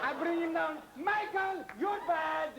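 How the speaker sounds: gushing Italian pizza man; Italian accent. Acted. Pizza man fawning over Miss Taylor, Italian accent. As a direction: play an excitable Italian delivery man. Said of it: "stop using that ridiculous Italian accent".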